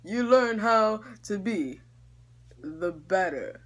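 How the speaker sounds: a hint of a wise old Santa; understated Santa wisdom; lightly voiced Santa. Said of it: "Santa Claus is like".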